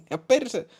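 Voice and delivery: very high falsetto, cut off; excited woman caller. Acted. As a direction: start in a high woman's voice, break off. (korkea naisääni falsetissa)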